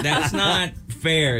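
laughing. Real, not acted. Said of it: "warn a guy who's got a mouthful of coffee".

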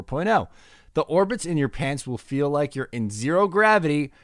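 punchy podcast sponsor read; lively host-read commercial. Acted. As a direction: sell it with big stressed key words. Reads sponsor ad.

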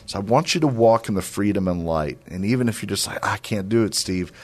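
earnest sermon voice, lifting on key words; preaching exhortation. Acted. Radio host urging listeners to walk in freedom, earnest preaching. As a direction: urge the listeners toward hope.

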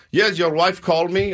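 lightly imitated Russian repairman; Russian accent. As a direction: put on a mild Russian accent. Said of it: "he's Russian".

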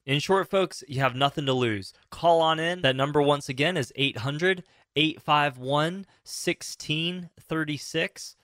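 slow, clear phone number read; infomercial. Acted. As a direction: announce the number slowly for listeners. Reads call-in number.

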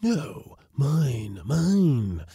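high, insistent counter-claim; high, possessive wail; rival spirit voice. A narrator's reading. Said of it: "said another voice".

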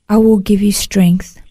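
slow, tender whisper; gentle whisper. Retold or imitated. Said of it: "tender, gentle, loving voice".

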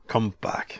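unvoiced whisper calling him back. Shown as a demonstration. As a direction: breathe it out as a whisper. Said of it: "now whisper".

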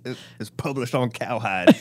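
lightly voiced cartoon rancher; a hint of a TV rancher; beef industry rancher. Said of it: "Is that how you envision the beef industry to sound".

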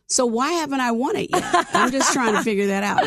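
joking with a laugh; laughing tease. Real, not acted. Host teasing guest, laughing lightly. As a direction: laugh through the playful question. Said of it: "No, I'm just playing".

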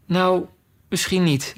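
mild, placating admission; slightly softened, appeasing tone; conciliatory. Acted. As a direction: give in gently to soothe. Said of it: "zei Alice op verzoenende toon".

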